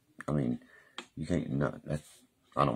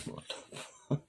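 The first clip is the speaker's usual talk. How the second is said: hushed, breathless what-the-fuck; whispered disbelief; 10 dB quieter, slower than usual. Retold or imitated. Recalling the woman who smelled his shirt, whispered shock.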